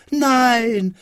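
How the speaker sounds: high, drawn-out defiant cry; high-pitched childish protest; shouted refusal. A narrator's reading. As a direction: cry out like a stubborn little boy. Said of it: "schrie Häwelmann".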